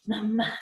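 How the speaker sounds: Mamá with a long, humming m; exaggerated demo. Shown as a demonstration. Teacher shows the nasal m of Mamá again. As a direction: press the m of Mamá through the nose. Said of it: "lo tengo que hacer más notorio".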